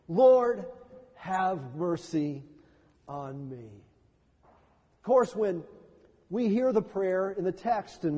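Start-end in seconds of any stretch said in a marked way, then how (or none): 0.1-3.7 slow, fading plea for mercy. Shown as a demonstration. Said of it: "better prayer".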